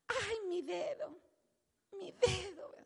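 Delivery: a light mock whine about a sore finger; whiny complainer. Preacher mimics a complaining churchgoer, mock whine. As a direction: whimper it like a chronic complainer. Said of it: "gente quejosa y lamentable".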